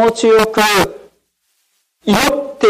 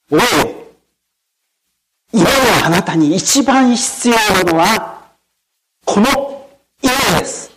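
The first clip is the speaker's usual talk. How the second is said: pastor admonishing. Retold or imitated.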